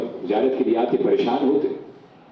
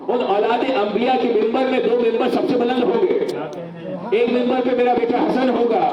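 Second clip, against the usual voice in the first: raised, high-pitched preaching voice; sermon proclamation; 7 semitones higher than usual. Real, not acted. Preacher announces the pulpits of judgement day to the congregation, proclaiming.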